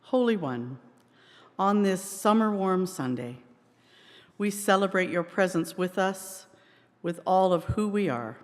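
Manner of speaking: measured prayer with spaced phrases; spoken prayer. Real, not acted. Minister to congregation before singing, measured prayer. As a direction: lead the room gently in prayer, pausing between phrases.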